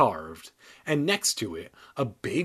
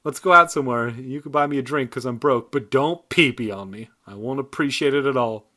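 mock invitation; 3 dB louder than usual. Real, not acted.

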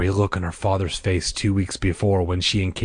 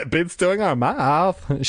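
high, slow, playful grin; grinning reply; 8 semitones higher, slower than usual. A narrator's reading. Diane replies to her friend, grinning. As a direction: draw it out through a grin.

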